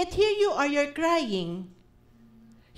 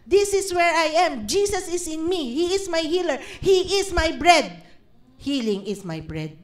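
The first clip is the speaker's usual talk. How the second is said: confident declaration. Shown as a demonstration. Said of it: "Di ba?".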